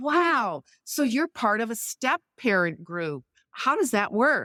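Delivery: animated, swooping, eager, genuinely curious tone. Showing how to ask about a step parent group, enthusiastic and curious. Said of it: "if you say it with enthusiasm".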